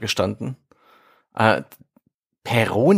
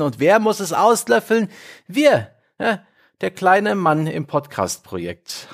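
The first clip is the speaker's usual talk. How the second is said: booming biblical narration; 2 semitones higher than usual. Acted. Mock-biblical podcast intro.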